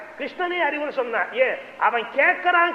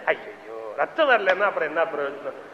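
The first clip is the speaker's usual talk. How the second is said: mock disappointment; 8 semitones lower, 5 dB quieter than usual. Bloodthirsty onlooker disappointed.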